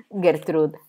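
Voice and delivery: un piagnucolio che monta in un grido soffocato, più forte verso la fine; piagnucolio inorridito. A narrator's reading. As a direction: come una signora scandalizzata che geme. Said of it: "piagnucolò Fanny inorridita". (piagnucolio inorridito, più forte alla fine)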